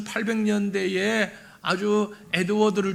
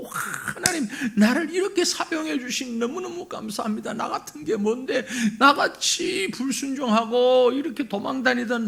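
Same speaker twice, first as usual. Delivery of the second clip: higher-pitched, overjoyed mock prayer, softening at the end; acted grateful praise; 4 semitones higher than usual. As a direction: gush thanks to God as the thrilled prophet. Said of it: "펄쩍펄쩍 뛰면서 하나님 찬양하고". (감격에 겨워 찬양하듯)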